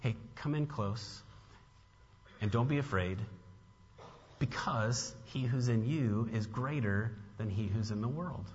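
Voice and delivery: soft, gentle call to come close; gentle reassurance. Retold or imitated. Apostle calming his little children, soft and tender. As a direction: quietly beckon frightened children in. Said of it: "almost this way of, like, saying".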